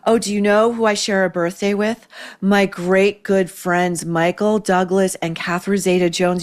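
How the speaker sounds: lightly voiced Barbara boasting of famous friends; name-drop as if it's brand new news; a hint of Barbara Walters showing off; bragging Barbara. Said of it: "she would say this like she had never said it before".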